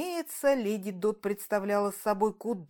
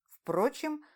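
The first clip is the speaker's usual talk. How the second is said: ordinary delivery, nothing marked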